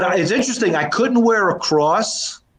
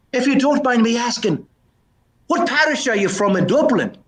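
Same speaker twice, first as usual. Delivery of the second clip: higher-pitched joke Irishman; Irish brogue; 5 semitones higher than usual. Acted. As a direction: ask politely in an Irish brogue. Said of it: "a bit of a brogue".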